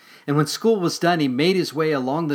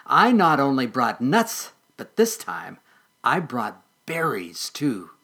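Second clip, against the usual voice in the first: tempting mole voice; 5 dB louder, slower than usual. Acted. Mole character voice.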